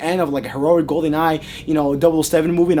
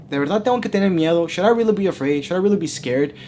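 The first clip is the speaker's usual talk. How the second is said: raised pitch, mock-worried question; sarcastic, condescending; 4 semitones higher than usual. Doubter questions the three locals about fear, sarcastic and condescending. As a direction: ask it as if humouring them. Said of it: "in a very sarcastic, condescending tone".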